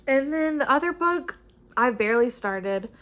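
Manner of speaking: a little breathless, words pushed out; out of breath. Real, not acted. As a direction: speak short of breath. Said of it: "see, I'm out of breath".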